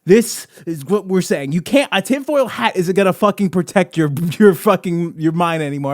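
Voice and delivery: hammed-up, emphatic conspiracy ranter; conspiracy theorist rant. Conspiracy host exposing paper shredders to listeners, hammed-up outrage. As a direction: rant with mock outrage, punching key words.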